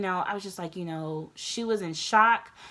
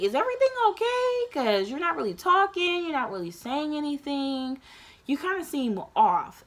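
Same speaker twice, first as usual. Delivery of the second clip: high, quick voiced mom checking in; worried mom; 7 semitones higher, 3 dB louder than usual. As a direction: play the concerned mother, pitched up. Mom asking why she's quiet.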